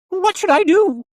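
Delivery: loud, piercingly high puppet question; demanding doll. A narrator's reading. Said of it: "the doll demanded".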